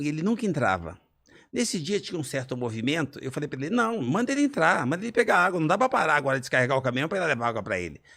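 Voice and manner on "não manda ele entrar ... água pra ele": a boss brushing off the request, impatient, the last part rushed; arrogant order. Retold or imitated. Owner ordering staff to ignore the wanderer, arrogant. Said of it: "Eu fui extremamente arrogante".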